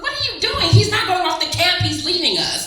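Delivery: put-on the twenty-year-old her, shrieking high in disbelief; outraged younger self. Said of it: "the twenty-year-old is like".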